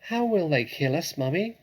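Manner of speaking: a cub asking in fear; frightened cub. Acted. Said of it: "asked one of the small foxes".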